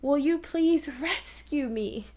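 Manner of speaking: slow, high plea punching "rescue"; exaggerated accent on "rescue"; stress on RESCUE. Shown as a demonstration. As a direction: hit "rescue" clearly. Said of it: "what words you think I'm really accenting".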